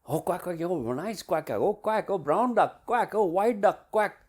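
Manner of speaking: high, loud, gushing fascination with ducks; great interest. Shown as a demonstration. Coach showing player how to watch ducks, keenly interested. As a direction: marvel eagerly at every quack. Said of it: "looking at them with great interest".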